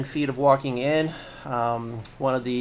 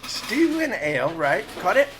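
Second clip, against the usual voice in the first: high barmaid voice taking orders; 7 semitones higher than usual. Acted. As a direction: jot it down and move on.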